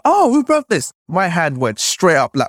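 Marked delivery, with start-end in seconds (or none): 0.0-0.9 very high, sharp teacher's demand; teacher confronting the class over the broken thing; stern teacher. Retold or imitated. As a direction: ask it like a shocked schoolteacher. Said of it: "She's like".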